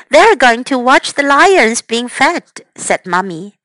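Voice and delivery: lively storybook reading; bright picture-book narration; reading to children. Acted. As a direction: read it to the little ones with character voices.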